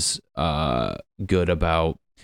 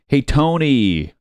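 loud, slow mock hail, higher; calling out; 7 semitones higher, 6 dB louder, slower than usual. Mock-calling out to Tony Robbins, loud and drawn out. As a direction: hail him across the room, mockingly.

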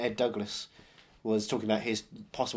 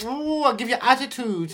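high-pitched, loud mock Latina accent; hammed-up Latina sass; sassy Latina accent; 10 semitones higher, 6 dB louder than usual. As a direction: caricature a Latina woman with attitude. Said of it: "a Latina woman who's like".

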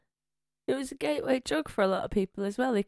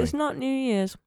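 eating chocolate; 4 semitones higher than usual. Real, not acted. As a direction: mouth full of chocolate. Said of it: "I've got chocolate in my mouth".

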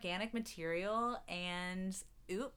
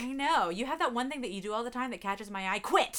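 mock drama teacher; 4 semitones higher, 6 dB louder than usual.

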